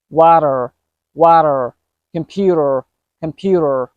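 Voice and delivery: water and computer with each T as a quick D; fast D sound. Shown as a demonstration. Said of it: "a fast D sound".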